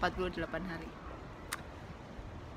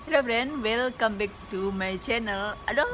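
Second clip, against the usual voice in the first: shouting over wind. Real, not acted. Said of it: "maaf ya guys, ini anginnya gede banget".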